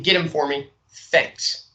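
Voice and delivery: short, falling, final; flat directive with the tune dropping; firm closing fall on thanks; downward inflection. Shown as a demonstration. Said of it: "use short sentence structures and a downward inflection".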